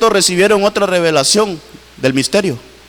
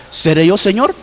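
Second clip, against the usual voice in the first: a gentle questioning rise on Señor; disciples asking humbly. Retold or imitated. Preacher voicing the eleven disciples asking Jesus, humble question. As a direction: ask it like an anxious disciple. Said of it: "así los once se preguntaron".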